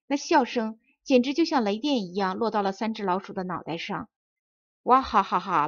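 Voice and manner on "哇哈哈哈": put-on big hearty laugh from the old man; belly laugh. Old man laughs at the mice, hearty laugh. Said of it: "老头子抱着肚子笑了起来".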